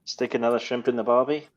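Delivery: lightly put-on Australian accent; a hint of mock Australian. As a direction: try a stock Australian catchphrase accent. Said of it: "Well, that's Australian".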